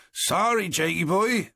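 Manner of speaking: cheeky, bright teasing; chirpy. Acted. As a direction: chirp it with mock apology. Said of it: "Vincent chirped".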